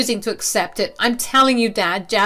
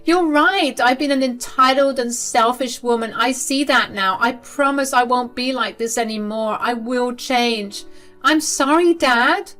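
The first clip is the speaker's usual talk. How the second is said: high tearful begging, voice raised; pleading, crying; 7 semitones higher, 5 dB louder than usual. A narrator's reading. Daughter begging her father in tears, high and pleading. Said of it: "started to cry".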